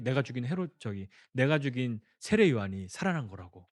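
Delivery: usual speaking voice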